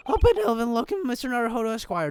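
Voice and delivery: high-pitched character voice; quick, high reading of the assistant; assistant's voice. Acted. Reads the assistant's line in a put-on voice.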